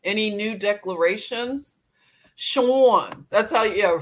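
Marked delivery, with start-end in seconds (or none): 2.3-3.3 louder "Sean" in a falling Philly aw; Philly accent. Shown as a demonstration. Calling out to a viewer in a Philly accent. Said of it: "that's how we say it in Philly".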